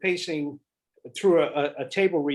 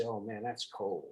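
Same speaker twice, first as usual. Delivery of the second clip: deadpan drop; 6 semitones lower, 12 dB quieter than usual. Retold or imitated. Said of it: "and you say".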